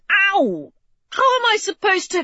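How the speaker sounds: high, quick pained outburst; pained protest. Acted. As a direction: yelp then blurt the question fast. Poked again, protesting.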